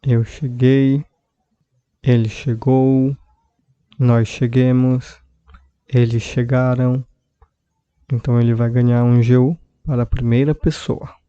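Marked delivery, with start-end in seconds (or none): 0.0-7.1 slow, clear teacher's drill; slow drill for students; slow conjugation drill. Shown as a demonstration. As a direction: spell each form out slowly for learners. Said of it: "vai ficar como eu cheguei".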